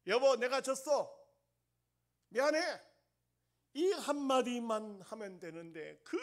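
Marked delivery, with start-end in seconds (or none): 0.1-2.6 high, loud apology to the wife. Acted. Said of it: "어떻게 싸움이 끝이죠". (아내에게 크게 외치는 사과)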